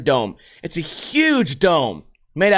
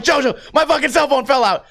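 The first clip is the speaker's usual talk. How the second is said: higher-pitched retold cry to a friend; mock alarmed call; 5 semitones higher than usual. Telling JoJo the phone fell out, mock alarm. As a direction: call out as if over the ride. Calls to friend on moving coaster.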